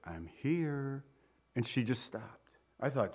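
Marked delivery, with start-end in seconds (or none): 0.1-1.0 put-on soft reassurance over a baby; soothing father. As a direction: quietly let the child know you are there. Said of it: "that comedian stood over her, his little baby and said".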